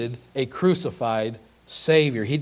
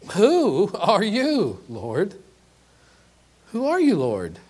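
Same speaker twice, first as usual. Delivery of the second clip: stunned question; 5 semitones higher, slower than usual. Retold or imitated. Saul struck down, asking.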